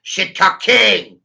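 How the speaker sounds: slow, loud, high proclamation; proud shout. Pretend. Ranter declaring his title to the viewers, slow loud shout. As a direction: bellow it like a royal title.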